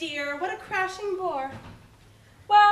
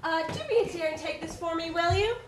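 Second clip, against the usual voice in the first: posh society lady. Acted.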